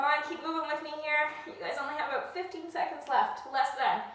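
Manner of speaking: urging them on while straining; doing sit-ups. Real, not acted. Coach urging through last seconds.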